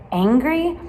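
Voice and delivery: a sharp loud angry word. Shown as a demonstration. Teacher showing kids the angry face, loud and sharp. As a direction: bark the feeling out as an angry face. Naming feelings from emoji faces.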